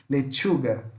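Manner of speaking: "Lechuga" with T plus X sound; teacher's model of "Lechuga" with tch. Shown as a demonstration. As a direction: say "Lechuga" as le-TCHU-ga. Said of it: "falasse com o som de X".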